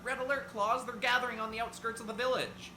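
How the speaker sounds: high, loud squeaky cry of alarm; squeaky little helper shouting the alarm. Acted. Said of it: "A squeaky voice cried across the control tower".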